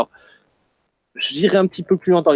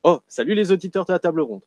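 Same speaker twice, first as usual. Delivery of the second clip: Tommy Wiseau parody; 2 semitones higher, faster than usual. Pretend. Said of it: "je m'attribue le rôle de Tommy Wiseau avec mon accent belge".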